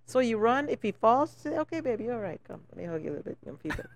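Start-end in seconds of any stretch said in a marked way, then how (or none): 1.6-3.4 put-on soothing a child. Comforting a fallen child.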